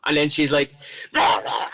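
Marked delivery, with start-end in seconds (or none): 1.1-1.7 garbled imitation of a screaming rant; mock ranting. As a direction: blurt nonsense as if losing it. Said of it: "She just fucking lost it".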